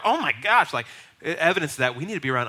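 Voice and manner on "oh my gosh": higher, louder mock outrage; a scandalized churchgoer's gasped reproach; shocked. Only Christian at dinner hearing crude talk, shocked.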